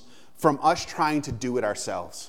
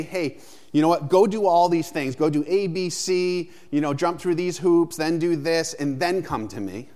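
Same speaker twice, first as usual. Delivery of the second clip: mock demanding voice; 3 semitones higher than usual. Pastor mimicking a demanding God he rejects, mock bossy. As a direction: rattle off the demands like a bossy checklist. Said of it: "it doesn't say".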